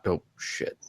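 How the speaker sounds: whispered oops; unvoiced oh shit. Real, not acted. Host realizing he mocked a co-host's injured player, whispered. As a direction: catch yourself in a hushed whisper. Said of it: "is that too soon?".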